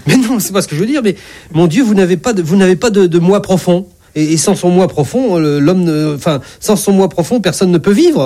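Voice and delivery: a doctor fumbling to explain himself; flustered insistence. Acted. Flustered doctor insists to patient God.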